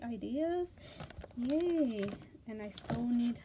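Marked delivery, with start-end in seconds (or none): 1.4-2.0 louder happy yay; a little cheer of delight. Real, not acted. Flipping through the magazine gift, cheering, excited.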